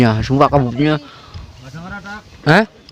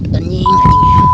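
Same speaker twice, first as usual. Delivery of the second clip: startled yelp; 5 dB louder, much slower than usual. Real, not acted. Exclaiming at the wind on peak.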